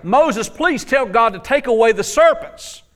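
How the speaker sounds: retold desperate prayer, stretched slowly; imitating pleading people. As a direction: beg it out, drawn-out and hammed-up. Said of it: "the people prayed out".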